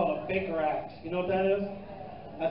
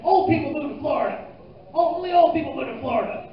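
buddies teasing; 7 semitones higher, 7 dB louder than usual. Retold or imitated. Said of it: "all my buddies said".

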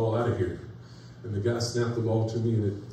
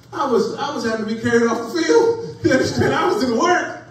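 hammed-up pain; 8 dB louder than usual. Retelling being carried off injured.

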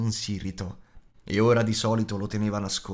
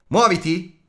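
loud, high shouted order; grido; 8 semitones higher, 9 dB louder, slower than usual. A narrator's reading. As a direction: shout to hurry them along. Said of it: "gridò ancora". (ordine urlato, acuto e forte)

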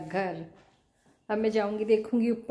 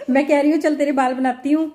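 laughing; 4 semitones higher, 10 dB louder than usual. Real, not acted. Mother laughing, loud to daughter.

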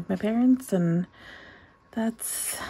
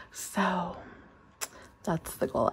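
quiet at night; 6 dB quieter, slower than usual. Real, not acted. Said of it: "'cause my parents are sleeping".

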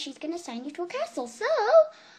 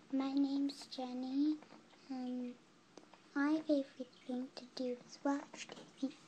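too quiet; 7 dB quieter than usual. Real, not acted. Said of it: "Can you say that a bit louder, honey?".

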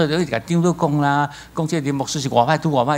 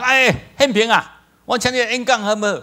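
imitating the pastor; 9 semitones higher than usual. A pastor phones to invite him to speak, coaxing high voice. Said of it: "他说".

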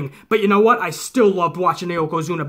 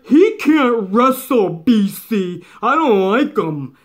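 mocking critic's voice; slower than usual. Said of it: "The things that I fucking re".

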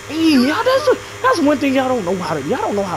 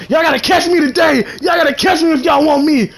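taunting shout; 6 semitones higher than usual. Real, not acted. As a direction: dare them to catch you. Taunting chasers.

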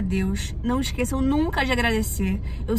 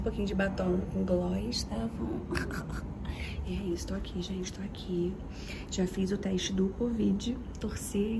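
whisper; 2 semitones lower, 10 dB quieter than usual. Real, not acted. Whispering inside the studio.

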